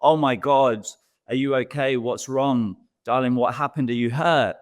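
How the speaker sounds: put-on mildly frantic parent fussing over child; mock panicked parent. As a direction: play the worried parent, lightly. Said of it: "So if we freak out".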